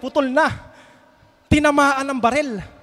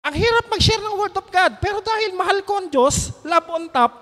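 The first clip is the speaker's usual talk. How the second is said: higher, passionate preaching; fervent testimony; 6 semitones higher than usual. Real, not acted. Preacher confesses his love for God, high and fervent. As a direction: pour your heart into it.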